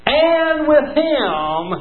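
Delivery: slow, drawn-out reassurance; reassuring promise. Acted. God promising Moses he will guide him, slow and reassuring. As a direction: linger on every step as a comfort. God's promise, preached slowly.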